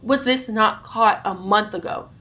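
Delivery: retold indignation, firmly punched; acted-out exasperated protest; getting mad. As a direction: demand answers with mild, mounting anger. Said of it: "I'm getting mad".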